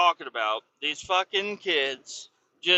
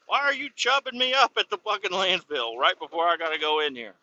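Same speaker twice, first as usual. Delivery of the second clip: high mock protest sinking to usual pitch; exasperated complaint; 4 semitones higher than usual. Driver's imagined complaint to scale house girl, exasperated. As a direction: start high and incredulous, slide down to a grumble.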